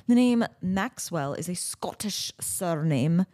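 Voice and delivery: a hint of a poor Scottish accent; attempted Scottish accent. Host reading out a surname's origin in an attempted Scottish accent. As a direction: lightly try Scottish, not quite managing it. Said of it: "I can't do Scottish".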